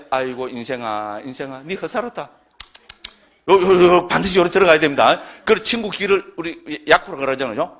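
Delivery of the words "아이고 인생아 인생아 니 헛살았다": mock pity. Speaker pitying an ignorant friend's life, mock lament. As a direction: sigh over their wasted life.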